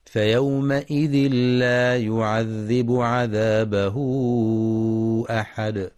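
slow melodic tajweed chanting; Quran recitation. Shown as a demonstration. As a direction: chant the verse slowly, drawing out vowels.

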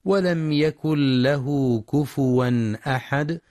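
slow measured tajweed recitation; Quran recitation. Shown as a demonstration. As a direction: recite it slowly, as in prayer. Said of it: "ينتبه القارئ برواية حفص". (تلاوة مجودة متأنية)

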